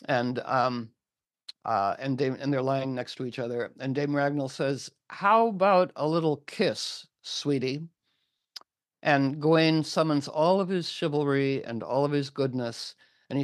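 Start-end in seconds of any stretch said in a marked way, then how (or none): 5.1-7.9 coy mock flirting. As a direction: coax playfully as the amorous hag. Hag flirts on the wedding night.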